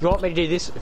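American attempt slipping into British; accidental British accent. Shown as a demonstration. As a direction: try American, land in British. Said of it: "that's British again".

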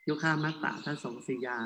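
"ยุคามัตตะทะสงสิยา" split into groups of two or three syllables; pausing by word group. Shown as a demonstration. Monk showing Pali reading, "ยุคามัตตะทะสงสิยา" in short measured groups. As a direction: read "ยุคามัตตะทะสงสิยา" with small stops between word groups. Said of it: "เราต้องหยุดอยู่ที่สองหรือสามพยางค์".

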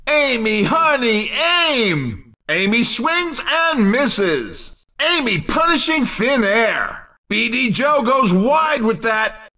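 punchy play-by-play callouts of missed attacks; game announcer. Acted. Announcer calling missed attacks for the game, punchy play-by-play. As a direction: call each miss like a sportscaster.

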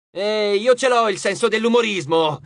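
loud, irritated comeback; indignant growl at a taunt; growled retort. A narrator's reading. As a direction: snap back, offended. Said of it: "ringhiò Leo".

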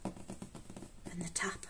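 slow, breathy ASMR whisper; ASMR tapping whisper. Shown as a demonstration. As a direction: whisper it like a sleepy TikTok tapping video. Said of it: "where they go".

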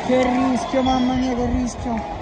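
loud, anxious cry; alarmed exclamation. Real, not acted. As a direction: react to a scary chance. Danger near goal.

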